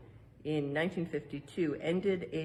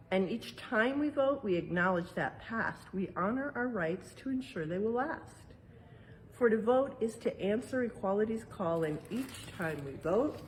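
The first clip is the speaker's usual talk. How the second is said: rhyming verse read aloud; 3 semitones higher than usual. Acted. Parent reading the exhibit's rhyme to children, lilting read-aloud. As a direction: read the rhyme like a picture book to kids.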